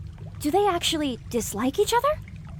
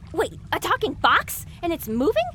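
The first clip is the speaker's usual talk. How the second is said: double take; 4 semitones higher than usual. Acted. Double take at talking box.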